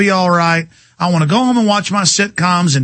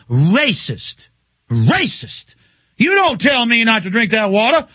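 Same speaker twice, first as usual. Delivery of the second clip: mock caller. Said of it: "she just goes".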